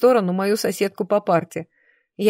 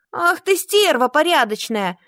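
much higher furious cry; screaming insult; 7 semitones higher than usual. A narrator's reading. Witch screams at the brunette while held back, furious yell. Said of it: "завопила ведьма".

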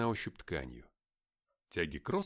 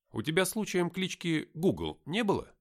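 raised, teasing question; joking; 7 semitones higher, 4 dB louder than usual. A narrator's reading. Narrator teases his friend about a nickname, joking. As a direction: poke fun with a playful query. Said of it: "пошутил я".

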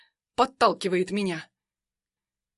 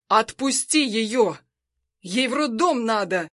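strained shout; 3 dB louder than usual. Acted. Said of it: "надсадно кричит Заур".

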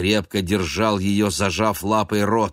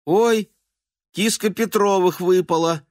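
much higher, louder chattering voice; gossiping neighbour; 13 semitones higher, 5 dB louder than usual. A narrator's reading. The neighbour exclaiming over the fallen cat, high gossip. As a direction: cluck like a nosy neighbour.

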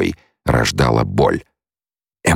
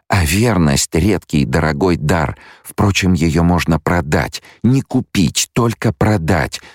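higher-pitched female character, pointed; cynical young woman; 5 semitones higher than usual. Acted. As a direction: lift the pitch, lecture him wryly. (язвительная героиня, высоким голосом)

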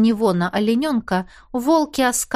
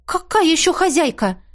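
nervous indignation; 7 semitones higher than usual. A narrator's reading. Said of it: "нервно возмутилась я".

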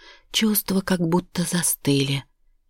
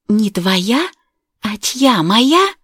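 high, loud mocking questions; sarcastic outrage; 7 semitones higher, 6 dB louder, much slower than usual. A narrator's reading. Wife mocking her husband's denial, loud and sarcastic. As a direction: throw his words back at him.

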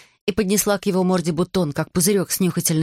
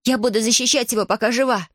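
put-on high, determined girl's voice; defiant girl; 5 semitones higher than usual. Girl vowing to protect her friend, high and firm. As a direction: stand your ground as a brave little girl. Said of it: "угрожающе взмахнув своей палочкой".

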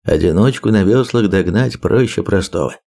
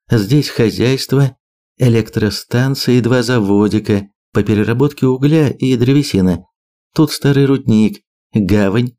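measured briefing, slightly raised voice; lightly voiced map briefer; 3 semitones higher than usual. Birger lists island sites for his allies, lightly voiced briefing. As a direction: lay out the sites item by item.

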